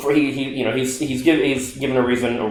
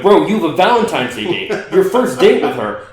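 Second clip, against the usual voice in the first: excited all caps text; 4 semitones higher than usual. Retold or imitated. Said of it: "I'm writing all this in caps".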